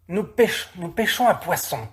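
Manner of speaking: high, stammering answer. A narrator's reading. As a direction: caught out, blurts an excuse. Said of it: "balbutie Ephim".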